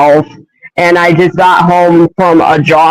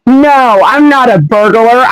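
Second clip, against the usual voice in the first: higher-pitched acted protest; indignant denial; 5 semitones higher than usual. Hedgehog mistaken for a burglar, indignant. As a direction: protest the accusation in a raised pitch.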